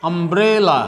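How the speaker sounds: "umbrella" opened with a short "a" sound. Shown as a demonstration. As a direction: say the first U of "umbrella" as "a". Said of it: "is used like a".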